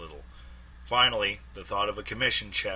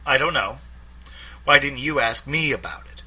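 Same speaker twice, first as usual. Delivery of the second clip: Ruth on the phone; 5 semitones higher, 3 dB louder than usual. A narrator's reading.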